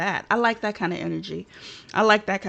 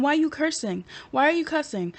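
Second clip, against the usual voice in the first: indignant disbelief; 5 semitones higher than usual. Retold or imitated. Indignant replay of being yelled at.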